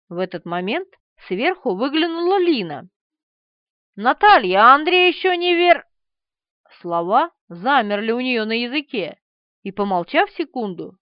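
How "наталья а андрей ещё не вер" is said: calling out. Acted. Calling down from upstairs.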